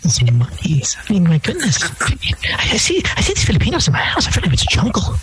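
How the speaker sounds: high, haughty mock-rich voice; hammed-up snob, pitched high; snobbish employer. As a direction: play a disdainful rich boss looking down on maids. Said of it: "Where's this script from?".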